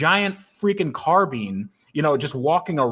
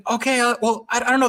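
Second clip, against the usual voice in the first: imitating a friend's baffled high voice, much higher; 11 semitones higher, faster than usual. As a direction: retell the friend's puzzled reply, pitched way up. Friend confused at dealership.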